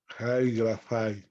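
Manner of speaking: slow "Jai grafai", with a Spanish j on "Jai"; pronunciation model. Shown as a demonstration. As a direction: say "Jai grafai" word by word, slowly. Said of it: "Y se pronuncia así". ("Jai grafai" pronunciado despacio, con jota)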